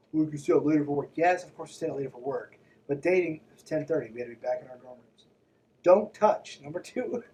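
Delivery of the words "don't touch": mock command. Reading the rule as a command.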